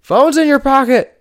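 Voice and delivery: high, loud imitation of the buddy, laughing; friend in the shower. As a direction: mimic his high, shouted voice through a laugh. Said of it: "He's like".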